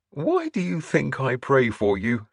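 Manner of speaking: bishop's lightly amused tease; laughing. A narrator's reading. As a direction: draw it out with understated mirth.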